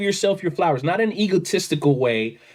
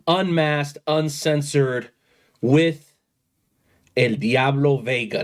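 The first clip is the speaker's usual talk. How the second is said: lucha libre announcer. Acted. Host formally introduces guest, announcer-style.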